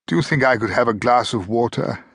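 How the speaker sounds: a mildly voiced dry croak from a parched captive; a thirsty prisoner croaking a request to his captor. A narrator's reading. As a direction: ask for water through a dry throat. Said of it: "he croaked".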